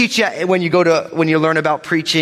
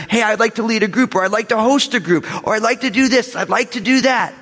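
higher-pitched eager volunteer voice; 6 semitones higher than usual. Acted. Preacher voicing members offering to serve, eager. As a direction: chirp up like someone signing up.

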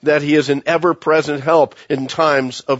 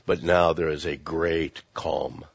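lower, much softer hush; hushed calm; 11 semitones lower, 10 dB quieter than usual. Shown as a demonstration. Preacher describing the stilled sea, soft and hushed. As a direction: let the words settle like still water. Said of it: "he says".

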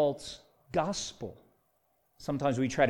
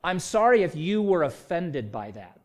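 insincere polite apology; fake apology. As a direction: say sorry without meaning it. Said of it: "telltale sign of self-justification".

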